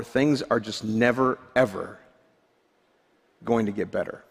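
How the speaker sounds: low, subdued, mildly acted hopelessness; hopeless self-talk. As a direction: let it sink, as if giving up. Voicing ruminated negative self-talk.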